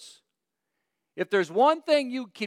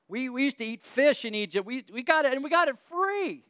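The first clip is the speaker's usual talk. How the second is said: higher, slow whiny complaint; whining Israelites; 4 semitones higher than usual. Retold or imitated. Preacher voicing Israelites to congregation, mock whining complaint. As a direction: whine like spoiled grumblers. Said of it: "had the people of Israel whining".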